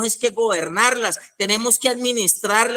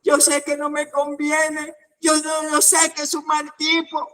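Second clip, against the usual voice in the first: lovesick confession; 9 semitones higher than usual. Acted. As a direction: sigh it out like a hopeless romantic. Friend confesses she still loves him.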